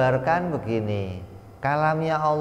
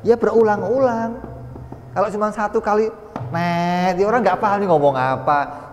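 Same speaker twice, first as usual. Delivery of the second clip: higher and louder, animated and emphatic; fired-up teacher, louder and higher; excited explaining; 8 semitones higher, 4 dB louder than usual. Real, not acted. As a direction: push the point with energy, pitch way up. Lively example of coded signals.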